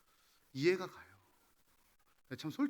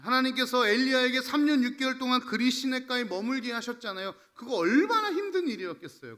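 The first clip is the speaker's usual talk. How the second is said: raised, urgent sermon voice; forceful preaching; 6 semitones higher, 8 dB louder than usual. Real, not acted. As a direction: press the Bible example on the congregation. (목소리를 높인 열띤 설교조)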